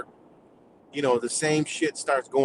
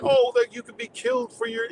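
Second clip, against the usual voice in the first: much higher, sing-song sarcastic voice; mocking quote. Mocking critics of Iran's rules, in a much higher sarcastic voice. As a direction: ham it up like a scandalised critic. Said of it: "they said".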